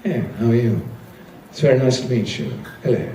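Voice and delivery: put-on very posh, proper English accent; clipped little pleasantries in received pronunciation; Uncle Dave. Imitating an uncle greeting someone, very posh English. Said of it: "very posh, proper, received pronunciation".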